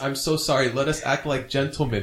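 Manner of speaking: a lightly voiced begging mob boss; understated plea to John; mock pleading. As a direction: plead for your son, half-hearted. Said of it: "pleading, pleading the case for his son".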